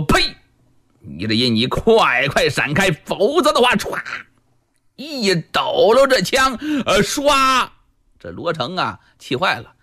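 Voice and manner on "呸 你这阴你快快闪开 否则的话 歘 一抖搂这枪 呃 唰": contemptuous spit, then a spear whoosh; scornful warrior brushing her off, ending in a swoosh; mild mock fury with a spear sound; angry spit and shout. Luo Cheng spits, shakes spear.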